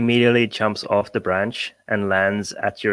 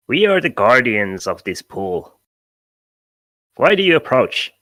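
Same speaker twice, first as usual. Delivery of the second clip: lightly voiced formal little sentry; pixie guardian Tumble; 4 dB louder than usual. Game master as pixie challenging travellers at the pool, lightly voiced. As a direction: challenge them as a small, self-important guardian. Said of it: "Tumble goes".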